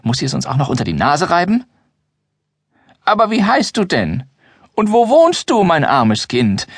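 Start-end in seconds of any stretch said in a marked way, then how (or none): 3.0-6.7 put-on very high, slow, whimpering old voice; whining old man. Grimbold asks the girl her name, whining like an old man. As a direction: whine with pity like a doddering elder. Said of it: "greint Grimbold".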